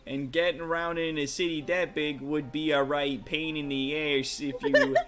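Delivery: put-on lightly done rough-edged sailor type, Brooklyn-ish accent; rough adventurer NPC. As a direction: read it as a cocky old rogue telling a tale. Rough NPC tells the heist.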